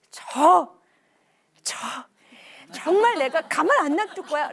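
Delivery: sputtered parental threat, halting start; stammer, then burst into a mock threat; exasperated threat. Mimics a father threatening his son.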